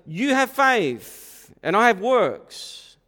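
high, loud, slow mocking voice of an objector. Preacher mocking a church member's objection, slow and loud. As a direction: ham up the smug church member. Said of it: "someone would say".

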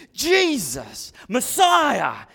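mild acted scream; desperate call, held back a little. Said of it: "Bartimaeus is screaming".

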